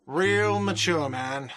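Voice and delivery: drawn-out, whiny and mocking; whiny shout. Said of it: "a whiny voice shouts".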